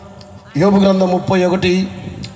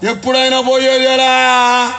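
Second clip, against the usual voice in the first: mock philosopher; 5 semitones higher, much slower than usual. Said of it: "philosophy చెప్తాడు వీడు".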